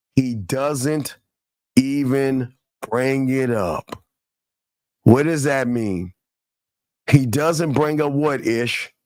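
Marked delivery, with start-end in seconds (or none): 0.2-4.0 very slow, deliberate, word-by-word reading. Reading a message aloud to the listener, really slowly. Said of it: "I'm gonna read this really slow".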